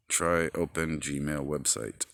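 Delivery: slow, careful dictation to the phone; slow phone command. Real, not acted. Talking to his phone, slow and deliberate. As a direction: spell it out for the voice assistant.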